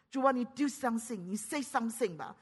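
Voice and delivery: mock-complaining, straight-talking prayer; direct, half-playful nagging; blunt plea to God. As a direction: tell God off plainly, like a pleading child. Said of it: "直讲".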